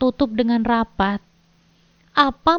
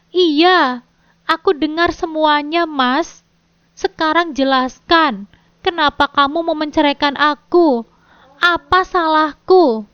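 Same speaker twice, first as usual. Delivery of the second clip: high, louder grieving questions; sorrowful; 4 semitones higher, 4 dB louder than usual. Acted. Wife demanding answers from husband, sorrowful and loud. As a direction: ask in heartbroken anguish. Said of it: "tanyaku dengan pilu".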